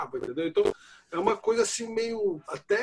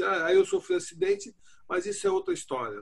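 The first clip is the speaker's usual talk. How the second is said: offhand self-quote; 14 semitones higher than usual. Retold or imitated. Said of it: "é uma hora que eu falo assim".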